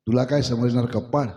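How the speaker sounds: a touch of annoyed scorn; irritated snap. A narrator's reading. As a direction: brush him off, mildly cross. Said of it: "चिडून कमळीनं म्हटलं". (थोडं चिडून, तुच्छतेने)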